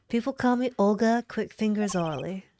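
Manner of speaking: lightly voiced southern card dealer; easy southern accent, near your own pitch. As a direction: introduce yourself with a southern accent. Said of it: "give her a southern accent".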